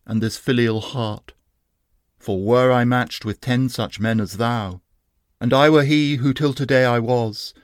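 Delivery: a hint of a dying youth's defiance; fearless defiance. Wounded Sohrab defies the boastful Rustum, lightly voiced and fearless. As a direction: answer him proudly, unafraid. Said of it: "with a fearless mien Sohrab replied".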